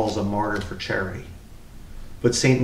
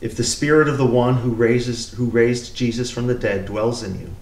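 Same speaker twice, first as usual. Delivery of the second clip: measured, solemn lectern reading; scripture reading. Acted. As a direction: read it out as the lesson at Mass.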